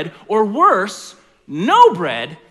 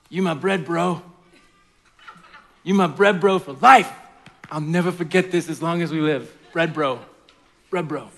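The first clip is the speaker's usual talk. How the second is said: frat bro; 3 semitones lower than usual. Acted. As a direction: yell like a hyped frat bro at midnight. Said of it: "this is how the story goes".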